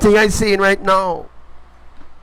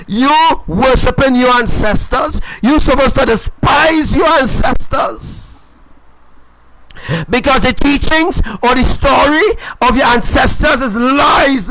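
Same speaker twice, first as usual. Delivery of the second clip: rising, half-shouted sermon hammering each phrase; fiery preaching; 2 semitones higher than usual. Acted. Preacher warning his online followers, fiery half-shouted sermon. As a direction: preach it hard, a warning of judgment. Preaching against ancestor worship.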